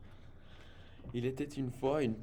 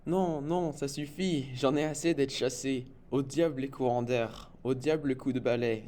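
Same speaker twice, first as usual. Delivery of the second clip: spider venting she's had enough, raised and exasperated; fed-up exclamation; 3 semitones higher, 3 dB louder than usual. Acted. Chloé the spider, fed up after the broom, exclaiming loudly. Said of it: "s'exclama-t-elle".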